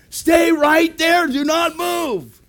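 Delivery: high, slow, emphatic shout; imitated stern order. Guard ordering the lost pastor to wait, slow shouted command. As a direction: shout each word slowly as a command.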